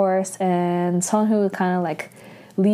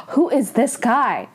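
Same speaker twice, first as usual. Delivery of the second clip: gasp, then higher, impressed question; mock swooning surprise; 5 semitones higher than usual. Friend asking who this guy is, mock swooning surprise. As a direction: play a friend bowled over. Gushing friend sees handsome brother.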